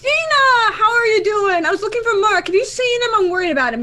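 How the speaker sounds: high, sugary worried voice; sweet fake concern. Sister fakes concern to Gina.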